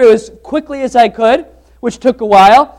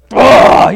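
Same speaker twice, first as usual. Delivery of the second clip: exasperated groan; 5 dB louder than usual. Retold or imitated. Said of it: "losing it".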